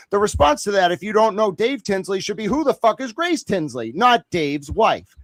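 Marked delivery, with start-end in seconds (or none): 2.5-3.9 mock baffled, higher-pitched question; lightly acted disbelief. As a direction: play at having no idea who that is. Acts out the expected baffled response.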